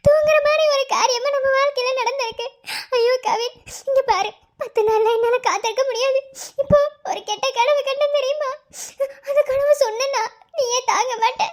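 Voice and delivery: crying while she talks, voice catching; fighting back tears, pleading; tearful pleading. Acted. Girlfriend crying to Kavin over a bad dream, tearful. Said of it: "முதல்ல அழுகாம பேசு".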